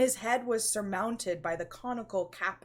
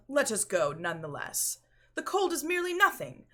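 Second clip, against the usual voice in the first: louder, rising to a high quick dismissal; brushing it off; 7 semitones higher, 5 dB louder, faster than usual. Acted. Fortunato dismissing his cold, loud impatient brush-off. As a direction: wave the worry away impatiently.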